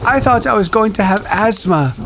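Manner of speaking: put-on high whiny boy; fretting schoolboy; Piggy voice. A narrator's reading.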